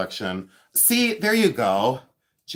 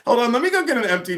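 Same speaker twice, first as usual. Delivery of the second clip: higher, pleading orphan voice, hammed up; begging orphan; 8 semitones higher than usual. Grifting viewers as a mock orphan, pleading. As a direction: beg for porridge like a poor little orphan. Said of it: "Pittance for tiny orphan Jason's porridge fund".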